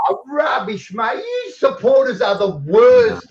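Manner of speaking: loud scoffing "rubbish"; indignant shout. Real, not acted. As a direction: shout him down in disbelief. Heated shouting argument.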